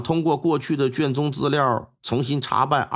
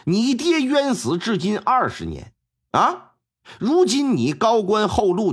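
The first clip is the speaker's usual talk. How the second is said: tearful mother; 4 semitones higher than usual. Acted. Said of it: "他眼泪就下来了".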